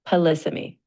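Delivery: Polysemy, leaning on the second syllable; stress on second syllable. Shown as a demonstration. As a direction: put the weight on "lys" in Polysemy. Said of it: "The emphasis is on the second syllable".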